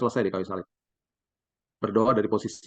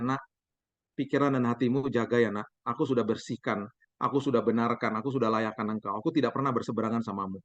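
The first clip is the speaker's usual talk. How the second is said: gentle reassuring voice. Acted. God reassuring his child.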